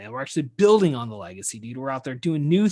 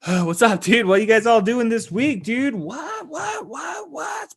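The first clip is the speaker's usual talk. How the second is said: goofy high greeting; 8 semitones higher, slower than usual. Pretend. Host greeting listeners for another week, goofy and high-pitched. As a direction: voice climbing into a high squeak.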